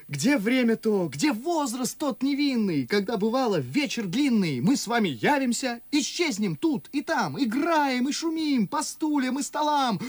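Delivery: fond memories rising in pitch; impassioned reminiscence. Acted. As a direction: get carried away recalling childhood games. Чацкий с жаром вспоминает детство. (увлечённо, с нарастающим жаром)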